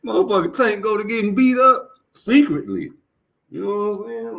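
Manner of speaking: high squeaky mocking voice; caricature voice. Mocking the streamers again, high squeaky voice. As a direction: slip back into the caricature.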